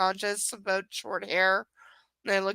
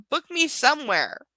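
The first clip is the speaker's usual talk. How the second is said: mocking repeat, higher and louder; 4 semitones higher, 5 dB louder than usual. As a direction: sneer the line back as a mock. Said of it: "Also, way to give specific".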